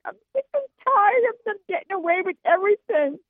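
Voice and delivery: sobbing out the anger; tearful, fed-up cry. Real, not acted. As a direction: caller crying in frustration over the news. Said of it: "I'm crying because".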